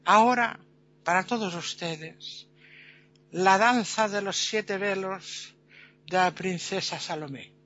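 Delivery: slow, drawn-out announcement with pauses; showman presenter. Acted. Presenter announces Salomé's dance to the audience, slow showman delivery. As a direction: punch the first word, then savour the title. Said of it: "y dice el presentador".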